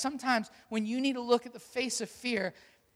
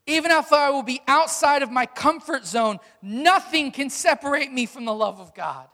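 louder, rising declarations of faith; preacher declaring God's promises boldly; confident voice of God; 3 semitones higher, 6 dB louder than usual. Acted. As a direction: proclaim it with mounting conviction. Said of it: "The voice of God says".

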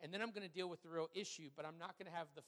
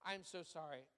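retold sincere apology; 2 semitones lower, 4 dB quieter than usual. Retelling a dad's apology to son.

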